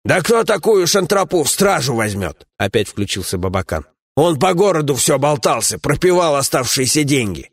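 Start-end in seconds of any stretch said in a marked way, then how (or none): 0.1-2.5 a lightly raised, scolding comrade's voice; gruff dwarf companion. Acted. 4.2-7.5 a lightly raised, scolding comrade's voice; gruff dwarf companion. Acted.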